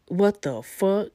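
slow, startled mock alarm. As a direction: drag out the panic. Woken by shaking bed.

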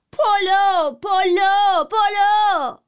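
loud high street cry; shouting. A narrator's reading. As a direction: hands cupped, shout it out. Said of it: "با صدای بلند داد زدم". (فریاد بلند «پلو» با دست دور دهان)

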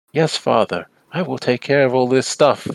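lightly voiced dignified son; a hint of formal, dutiful composure; dignified dude. Lee answering his father, mildly dignified. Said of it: "dignified, like, you know, kind of dude".

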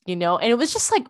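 ordinary talk

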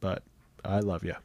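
sultry, a bit hoarse from being sick. Real, not acted. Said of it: "As you can probably tell by my sultry voice".

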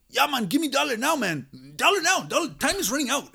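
high, loud whiny demand for a dollar; high mock pleading voice. Coworker demanding a dollar, high loud mock whine. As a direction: squeal it up like a pest wanting cash.

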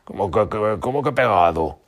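loud stammering disbelief; wolf baffled by the stuck fox; astonished. A narrator's reading. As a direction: stutter in shock. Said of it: "aún más sorprendido".

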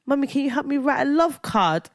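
high, earnest kid impression; imitating young son. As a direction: mimic a child asking Mommy for help. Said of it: "and he was like".

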